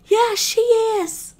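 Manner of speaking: high whispered voice from below the floor; high eerie whisper; hidden voice. Acted. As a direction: hiss it up through the floorboards. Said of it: "a voice go".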